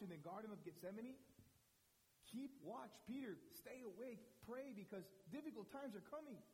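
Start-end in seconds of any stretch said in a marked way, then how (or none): 2.3-6.4 Jesus warning. Retold or imitated. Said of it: "his rabbi told him to keep watch".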